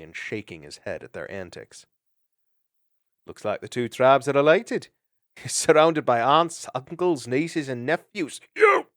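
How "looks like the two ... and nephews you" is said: amused laugh. Acted. The speaker laughing.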